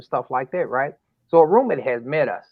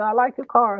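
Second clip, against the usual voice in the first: deflecting daughter again; 10 semitones higher, 3 dB louder than usual. Retold or imitated. Daughter repeats compliment.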